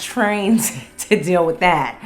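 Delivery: loud, high laughing protest; laughing refusal. Real, not acted. Host refusing to be the trauma friend, laughing. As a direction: laugh while waving them off.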